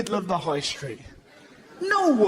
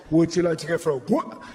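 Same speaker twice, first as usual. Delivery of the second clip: excited dog-owner voice; 3 semitones lower, faster than usual. Retold or imitated. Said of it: "all you have to say is".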